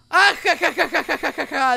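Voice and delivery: loud mock character cackle; a playful teasing laugh read out for her; Amber's laugh. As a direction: ham up the girl's laugh. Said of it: "Dice Amber".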